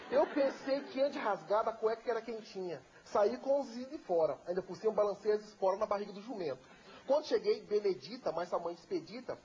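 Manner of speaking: rhythmic folk poem telling; cordel recitation. Acted. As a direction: recite the rhymes with relish.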